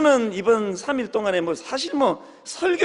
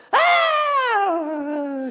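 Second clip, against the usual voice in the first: crying out in prayer; 10 semitones higher than usual. Retold or imitated.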